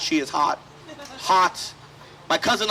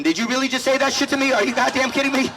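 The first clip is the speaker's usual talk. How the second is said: mildly outraged, pitched a little higher; mock indignation; 4 semitones higher than usual. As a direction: act out an incredulous comeback. Acted retort to a British critic.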